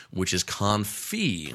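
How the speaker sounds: confit said slowly, kon-FEE, with a French nasal vowel and a silent t; French pronunciation. Shown as a demonstration. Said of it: "I know my French accent sucks".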